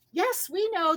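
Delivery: shouting back. A narrator's reading. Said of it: "the donuts shouted back".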